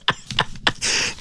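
quiet unvoiced chuckle; soft breathy laugh. Real, not acted. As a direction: laugh under your breath. Laughs at caller's age joke.

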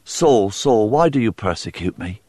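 a hint of a tender, calling voice; loving voice of Jesus. Jesus lovingly calls to Saul, lightly voiced tender plea. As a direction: call his name gently, with love. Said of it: "The loving voice of Jesus called out".

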